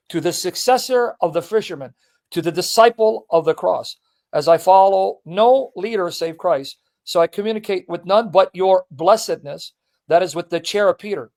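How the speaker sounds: measured, declaimed reading of a letter; formal reading aloud. Acted. Host reading a saint's letter to the pope, formal reading. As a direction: read it out with deliberate phrasing.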